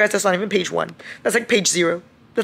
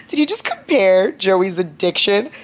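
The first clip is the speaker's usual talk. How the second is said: 1 slow disbelief; 3 semitones higher, 4 dB louder, slower than usual. Real, not acted. Shocked by book quote.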